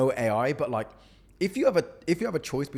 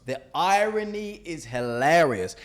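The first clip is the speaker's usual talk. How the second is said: sarcastic; 4 semitones higher, 4 dB louder, slower than usual. Real, not acted. Mocking an AI-written DM.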